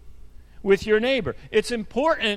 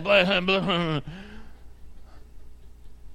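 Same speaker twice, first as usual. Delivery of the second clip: imitated stream of muffled blather; low mumbled mock tirade, no real words; mock blabbering; 3 semitones lower, 3 dB quieter than usual. Imitates the reply after "listen to this.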